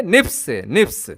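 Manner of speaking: SNPs said as one word, "nips"; "nips" for the letters SNPs; SNPs pronounced "nips". Shown as a demonstration. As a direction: say SNPs as "nips", not spelled out. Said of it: "जिसे हम pronounce करेंगे".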